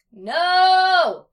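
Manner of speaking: put-on loud, high toddler refusal; yelled baby voice. A narrator's reading. Tommy refusing breakfast, high baby-voice yell. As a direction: yell it like a defiant little child. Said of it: "Tommy yelled out in his baby voice".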